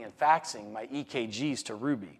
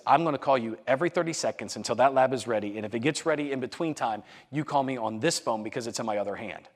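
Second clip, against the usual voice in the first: retold urgent phone demand; doctor's urgent insistence, mildly acted; faster than usual. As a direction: press the point with brisk insistence. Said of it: "that's the urgency that was happening".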